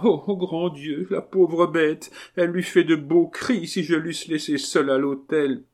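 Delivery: high, plaintive noblewoman; lamenting marquise. Acted. Marquise grieving her little dog, high and lamenting. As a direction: wail over a beloved pet in a high voice.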